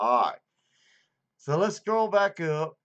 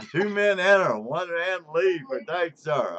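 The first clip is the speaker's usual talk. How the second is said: hyped movie quote; 4 semitones higher, 7 dB louder than usual. Acted. Quoting movie line, hyped.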